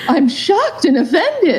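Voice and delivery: slow, prissy mock outrage; hammed-up shocked and offended. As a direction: drag it out like a clutching-pearls lady. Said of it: "you're like".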